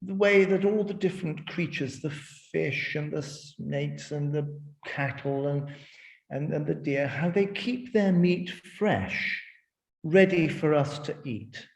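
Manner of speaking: mock-gracious host gloating over the feast; patronizing. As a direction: talk down to the guests as if they're lucky. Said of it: "rather patronizingly".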